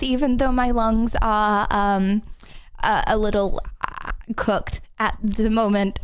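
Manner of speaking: a little winded after talking; slightly short of breath. Real, not acted. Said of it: "I'm not out of breath".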